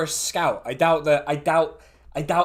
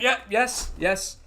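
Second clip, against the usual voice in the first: higher-pitched tipsy underling reporting in; slightly drunk, higher voice; slightly drunk halfling; 6 semitones higher, slower than usual. Acted. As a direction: answer eagerly, a touch tipsy. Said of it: "He is slightly drunk".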